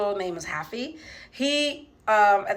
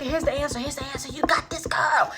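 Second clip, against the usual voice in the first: whispered hint; 5 semitones higher than usual. Retold or imitated. Slipping answers during the test.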